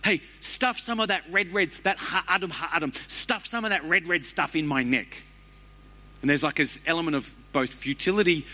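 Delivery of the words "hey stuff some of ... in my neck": high, urgent voice of a starving man; starving Esau. Acted. Preacher voicing Esau, desperate and high. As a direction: beg for the stew like you're fainting. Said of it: "And he's like".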